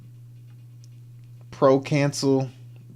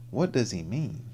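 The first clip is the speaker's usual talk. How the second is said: whisper; 7 dB quieter than usual. Real, not acted. Whispered aside.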